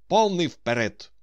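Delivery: loud, high rallying command. A narrator's reading. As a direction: call out the order like a captain. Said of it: "скомандував Остап". (гучна піднесена команда)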